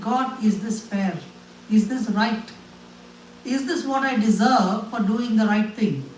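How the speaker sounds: a broken man demanding answers from God; anguished plea. Retold or imitated. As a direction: ask God with growing hurt. Retold anguished prayer to God.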